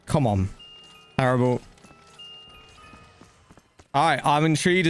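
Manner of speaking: normal talking voice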